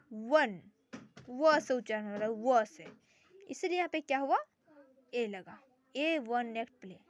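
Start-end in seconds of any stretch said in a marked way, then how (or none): 0.1-2.9 वन said with a firm व sound; sounding out one. Shown as a demonstration. Teacher showing how वन is said. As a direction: lean on the व of वन. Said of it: "इसका उच्चारण क्या है".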